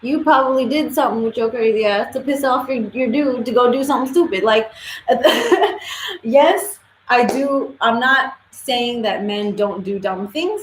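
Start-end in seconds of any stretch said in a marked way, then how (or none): 4.8-6.2 high bursting laugh; a real high laugh cracking up; big laugh. Real, not acted. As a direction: burst out laughing at your own joke. Laughing at her own jab.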